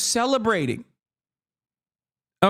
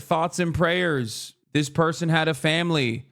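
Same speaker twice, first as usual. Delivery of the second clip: mock solemn media; 4 semitones lower than usual. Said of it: "the media is like".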